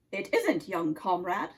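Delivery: put-on low-pitched Russian-accented nutcracker; deep Russian accent, a sentry's challenge. Nutcracker questions Oscar on the tree, low Russian accent. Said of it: "the Nutcracker chuckled".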